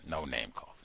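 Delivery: quiet aside. Real, not acted. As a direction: scold yourself under your breath. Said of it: "self-correction repeated".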